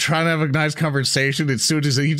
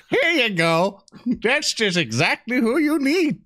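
teasing PC; 10 semitones higher, slower than usual. Acted. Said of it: "I'm like".

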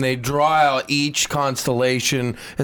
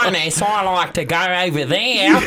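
giggling through a crude joke; laughing at her own pun; amused giggly delivery; 5 semitones higher than usual. Pretend.

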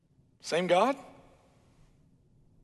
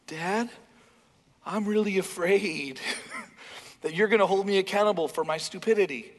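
mock kid pleading. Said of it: "conversations with my kids who know how to try to manipulate me".

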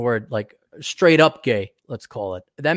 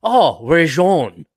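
mock British; 3 semitones higher, 4 dB louder than usual. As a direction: welcome a fellow clubman in fake English accent. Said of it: "none of us have British accents".

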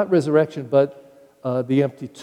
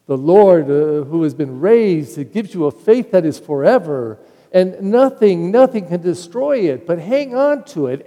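raised, higher voice pressing the point home; fervent exhortation; 3 semitones higher, 5 dB louder than usual. Acted. Peter urging the struggling community, fervent and loud. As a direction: preach it out loud and urgent.

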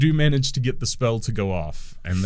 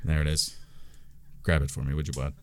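lower, softer, oily gnome voice; smooth menace, low; gnome crook; 6 semitones lower, 3 dB quieter, faster than usual. Acted. Gnome thug orders the orc, low and oily. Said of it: "the little guy goes".

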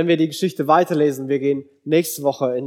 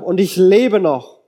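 loud, higher, drawn-out exclamation; crying out; 4 semitones higher, 6 dB louder, slower than usual. A narrator's reading. Preacher reads Jacob's cry that he survived God, crying out. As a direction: call it out slowly and emphatically. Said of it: "rief Jakob".

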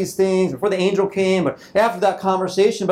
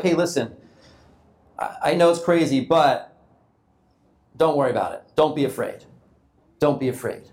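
lower, calm and gentle comfort; reassuring angel; 5 semitones lower than usual. Acted. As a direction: soothe a frightened man.

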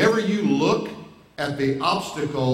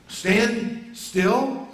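incredulous question; 5 semitones higher than usual. Shown as a demonstration. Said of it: "It's what he's telling us to do".

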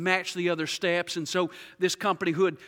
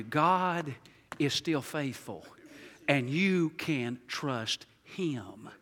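low, soft and very slow, each word set down; slow tender reassurance; 6 semitones lower, 6 dB quieter, much slower than usual. Shown as a demonstration. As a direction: let the promise land gently. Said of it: "I want to remind you".

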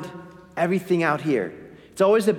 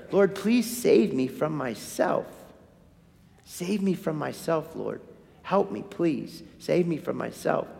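hushed prayer; 3 semitones lower, 6 dB quieter than usual. Shown as a demonstration. Quoted personal prayer to God.

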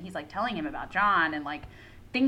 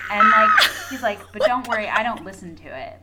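laughing shout; 13 dB louder than usual. Real, not acted. Laughing at character's creepy line.

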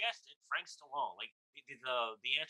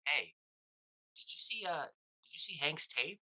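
imitating Norm Macdonald; 5 semitones higher than usual. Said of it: "he goes".

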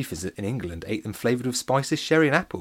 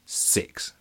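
whisper; 6 dB quieter than usual. Acted. Alex answers secretly.

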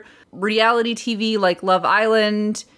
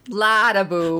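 put-on Minnesotan accent. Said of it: "in a thick Minnesotan accent".

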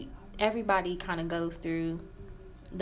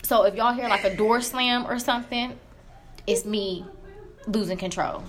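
annoyed; 2 semitones higher than usual. Real, not acted. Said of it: "because it's making me mad".

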